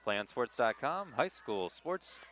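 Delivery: polished sports network ad read; promo read. Acted. Commentator plugging the network to game viewers, promo read.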